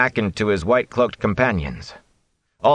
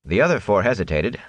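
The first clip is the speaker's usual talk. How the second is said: ordinary delivery, nothing marked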